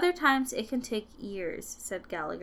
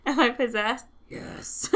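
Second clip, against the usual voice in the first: possessed demon voice; 2 semitones higher, 4 dB louder than usual. Shown as a demonstration. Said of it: "I can do a demon voice".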